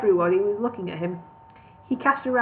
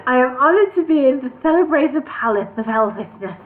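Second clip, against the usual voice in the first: pompous king; 4 semitones higher, 6 dB louder than usual. A narrator's reading. King's formal address, louder.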